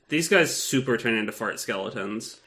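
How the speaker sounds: words laughed through; laughing while speaking. Real, not acted. Friends joking about vampires, laughing. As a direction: giggle through the joke.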